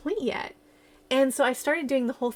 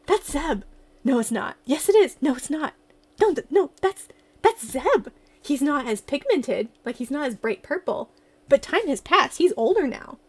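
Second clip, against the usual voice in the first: lightly voiced back-and-forth, higher and louder on the yes lines; excited arguing with myself; 3 semitones higher, 4 dB louder than usual. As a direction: replay the shock of spotting him. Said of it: "And I was like".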